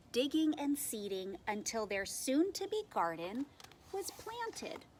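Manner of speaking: put-on animated read-aloud for young children; expressive storytime reading with lightly acted quotes; picture-book narration. A narrator's reading. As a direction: tell it like a picture book, leaning on key words.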